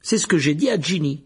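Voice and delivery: loud, high fierce scolding. A narrator's reading. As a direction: snap at his brother. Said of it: "dit Percy d'un ton féroce". (ton féroce et fort)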